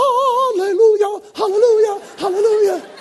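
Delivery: joyful, jubilant shouting.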